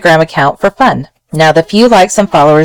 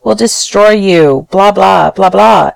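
knee-jerk advice; 4 semitones higher than usual. Retold or imitated. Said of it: "the knee-jerk response is".

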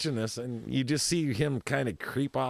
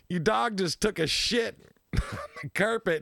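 laughing retelling; 5 semitones higher than usual. Retold or imitated. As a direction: quote breaks into a laugh midway. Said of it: "You know".

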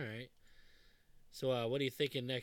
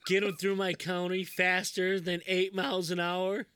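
redneck cop; 6 semitones higher, 8 dB louder than usual. Retold or imitated. Quoting redneck cop from movie.

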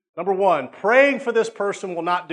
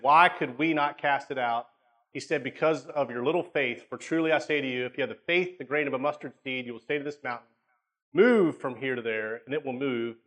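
scripture reading; 2 semitones lower than usual. Acted. Pastor reads Matthew to the congregation, steady reading voice. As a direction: read the passage steadily to the congregation.

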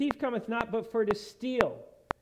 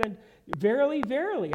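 "verily, verily" louder, lifted on the repeat; very emphatic; 4 semitones higher, 4 dB louder than usual. Retold or imitated. Jesus telling listeners something really important, very emphatic. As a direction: hit the first "verily" hard, raise the second. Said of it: "again, very emphatic".

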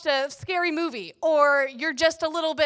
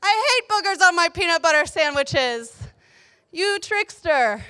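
raised-pitch, hammed-up child's complaint; playful high indignation, dragging the last words; mock outrage; 4 semitones higher than usual. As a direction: protest like a betrayed little kid.

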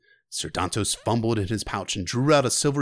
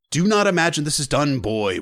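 warning; 4 semitones higher, 4 dB louder than usual. Acted. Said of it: "warned one".

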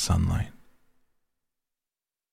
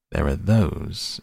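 smooth as oiled silk; slower than usual. Acted. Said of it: "in tones as smooth as oiled silk".

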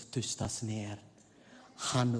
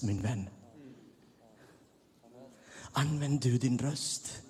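normal talking voice

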